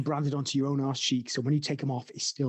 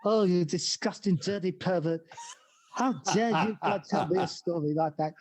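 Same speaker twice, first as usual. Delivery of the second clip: exasperated son. Retold or imitated. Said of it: "bang on impressions".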